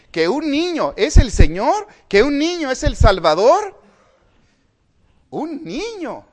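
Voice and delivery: preaching at full force. Acted. Preacher proclaiming to the brethren that the child is Lord, loud and high. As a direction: cry it out to the congregation.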